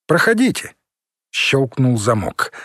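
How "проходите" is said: higher voice through the door intercom. Acted. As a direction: call it out over a speaker grille. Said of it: "голос из решётки динамика".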